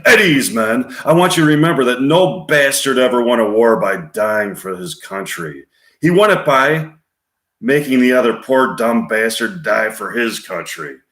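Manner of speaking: hard-driving commander addressing his men; George C. Scott as Patton. Acted. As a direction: lecture the troops with punchy force. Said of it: "Scene three, George C. Scott".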